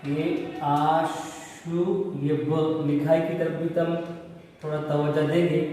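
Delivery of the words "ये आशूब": slow spelling demo. Shown as a demonstration. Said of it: "बाजू आशूब".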